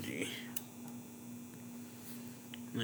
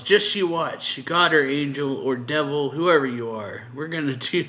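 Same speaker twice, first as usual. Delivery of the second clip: a retold yell, only partly raised; 3 semitones higher, 6 dB louder than usual. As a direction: call it out without a full shout. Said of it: "And he yells".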